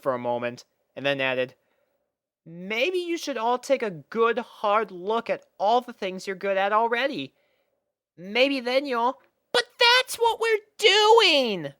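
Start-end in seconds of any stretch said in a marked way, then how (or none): 2.5-9.2 high, gentle advice voice; advising Twilight. Acted. 9.5-11.7 very high, slow protesting voice; eager Sweetie Belle. Acted. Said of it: "Sweetie Belle replied".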